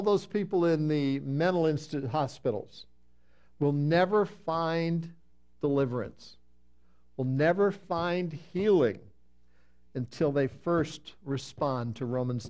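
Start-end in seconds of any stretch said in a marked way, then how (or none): 3.6-5.1 slow, "never" leaned on hard; stress on never. Acted. Preacher slowly pressing "never" on the congregation. 7.2-9.0 slow, "never" hit with a falling tune; stress on never. Acted. Preacher repeating the warning, hitting "never" slowly.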